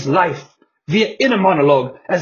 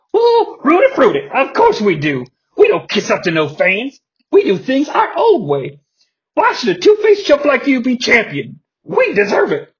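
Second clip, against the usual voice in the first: flamboyant wrestler voice; 5 semitones higher than usual. Acted. Johnny B. Bad gloats.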